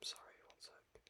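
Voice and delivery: breathy whisper, barely there; whispered aside. Real, not acted. Excusing himself to viewers while he texts, whispered. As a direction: drop to a whisper for a quick excuse.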